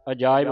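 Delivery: ਅਜਾਇਬ run together as a-jaa-ib; no gap inside ਅਜਾਇਬ; joined as one. Shown as a demonstration. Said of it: "ਪੜ੍ਹਨਾ ਹੈ ਇਕੱਠਾ ਹੀ".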